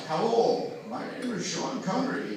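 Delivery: light mock Scottish accent; Sean Connery. Comic greeting the audience as a film star, mock Scottish accent. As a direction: introduce yourself in a put-on Scottish accent. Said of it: "a Scottish accent is a great thing".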